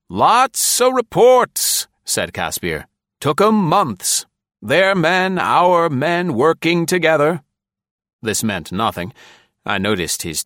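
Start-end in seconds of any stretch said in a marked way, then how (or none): 0.1-7.4 very high, loud, slow rambling colonel; neighing colonel. A narrator's reading. Colonel rambles about the reports, high and neighing. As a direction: ramble it half to himself.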